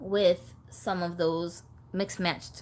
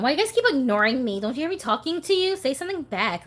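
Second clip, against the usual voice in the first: higher, insistent mock scolding; playful exasperated yell, only a little louder; 5 semitones higher, 3 dB louder than usual. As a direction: nag the silent dolls, pitch climbing. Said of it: "screaming at them".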